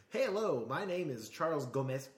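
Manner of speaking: put-on Spanish accent on the name. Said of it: "he suddenly got this Spanish accent".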